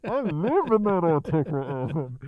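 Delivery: playfully imitating a smug music fan; lightly mocking a smug fan; mock snob voice. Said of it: "that's like you saying".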